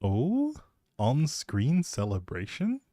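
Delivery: usual speaking voice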